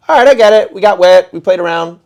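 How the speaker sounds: loud, high fed-up exasperation; exasperated. Retold or imitated. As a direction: sound completely over it. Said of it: "I'm like".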